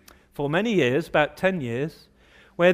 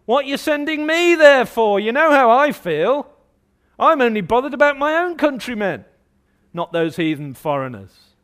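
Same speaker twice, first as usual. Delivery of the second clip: louder, high-pitched acted complaint; indignant outburst; 6 semitones higher, 5 dB louder than usual. Preacher playing Jonah resenting his mission, indignant outburst. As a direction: throw it back at God, raised and affronted.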